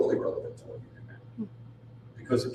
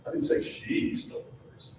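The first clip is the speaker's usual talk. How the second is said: "say" stressed, the sentence softer overall; 5 dB quieter than usual. Shown as a demonstration. Seminar speaker demonstrating meaning through stress, weight on "say". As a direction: lean on "say", as if it was only implied. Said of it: "every single time I say these seven words".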